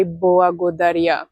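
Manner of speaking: благодаря, L pulled back like a W; throaty Bulgarian L. Shown as a demonstration. Teacher shows students the Bulgarian L in благодаря. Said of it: "it's here in the throat".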